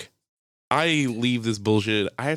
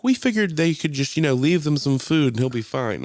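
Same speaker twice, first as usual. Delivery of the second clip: imitated knowing hint; 5 semitones higher than usual. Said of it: "looking at me with a wink".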